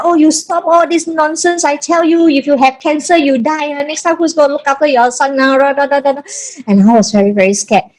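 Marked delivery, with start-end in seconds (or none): 0.0-6.2 mock screaming. Mom freaking out at her daughter's pumping, mock screaming. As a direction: imitate an alarmed mother's scolding, pitched up. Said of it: "My mom started screaming and said".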